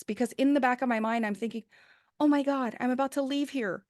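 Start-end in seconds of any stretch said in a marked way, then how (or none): 2.2-3.8 reliving the thrill of finally meeting him; overwhelmed excitement. Retold or imitated. Staffer recalling her thoughts as the president walks in, overwhelmed and excited.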